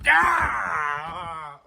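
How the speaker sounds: long falling "ah"; high scream sinking away; frightened cry. Real, not acted. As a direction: cry out, then let it drop. Scare from falling parts.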